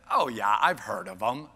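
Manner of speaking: hint of a clueless fellow, words dragged; dopey guy. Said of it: "dopey look on his face".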